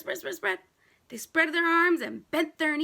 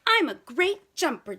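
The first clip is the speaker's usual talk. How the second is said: put-on eager kid voice; 2 semitones higher, 3 dB louder than usual. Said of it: "Jabari said".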